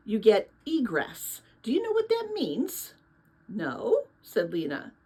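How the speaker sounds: steady storytelling voice reading a novel aloud; story narration. A narrator's reading. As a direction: read it like a bedtime chapter book.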